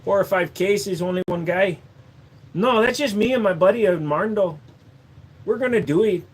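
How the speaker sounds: light Mexican put-on; Mexican accent. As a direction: back to the cheerful handyman.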